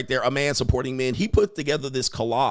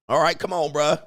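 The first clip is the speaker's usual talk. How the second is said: ordinary delivery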